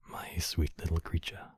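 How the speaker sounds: very soft, near-whispered endearment; tender lullaby hush. Acted. Host sending a sweet little creature to sleep, hushed. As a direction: lull them gently to sleep.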